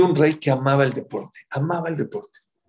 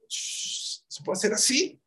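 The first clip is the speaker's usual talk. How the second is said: slow whisper; slow whispered warning; 6 semitones higher, 7 dB quieter, slower than usual. Shown as a demonstration. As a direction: let the words sink to a breath. Crack widening, shown.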